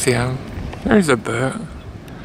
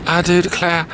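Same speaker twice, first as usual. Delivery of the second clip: put-on Southern accent. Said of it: "how we talk down south".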